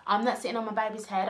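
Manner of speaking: retold demand. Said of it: "I goes".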